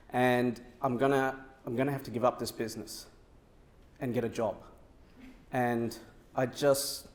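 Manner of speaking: a lightly voiced, downcast young man; sad. Young client phoning AJ about quitting his business, subdued and sad. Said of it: "And he sounds really sad".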